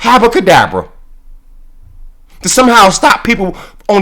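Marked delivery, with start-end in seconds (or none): 0.0-0.9 chanting abracadabra like a magician; playful mock incantation; mock magic spell. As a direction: cast it like a spell, teasingly. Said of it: "black girl magic".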